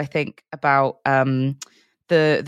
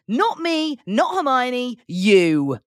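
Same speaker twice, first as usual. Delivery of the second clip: mock wooden child actor, pitched much higher; terrible child acting; 8 semitones higher, much slower than usual. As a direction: ham up a stiff child actor line. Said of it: "another terrible child acting line".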